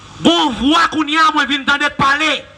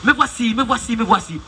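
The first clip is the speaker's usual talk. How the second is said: me vwasi repeated, each quieter, dying away; fading echo; 4 semitones lower, 4 dB quieter than usual. Retold or imitated. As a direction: let me vwasi fade out like an echo. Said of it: "yon paket ti eko". (eko k ap fennen, me vwasi pi dousman chak fwa)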